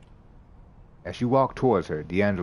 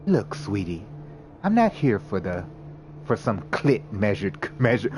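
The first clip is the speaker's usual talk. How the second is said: fumbled line. Real, not acted. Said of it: "let me get this sentence together".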